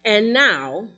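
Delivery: measured, emphatic preacher's reading; emphatic scripture reading. Acted. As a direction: read the apostle's letter out to the congregation. Reads Paul's letter aloud.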